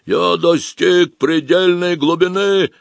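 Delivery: slow sepulchral voice through a tube. Acted. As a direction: sound hollow, like from a grave. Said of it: "Такой он был замогильный".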